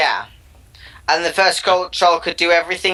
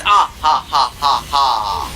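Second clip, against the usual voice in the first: mock king laugh; 4 semitones lower, slower than usual. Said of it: "And the king laughs".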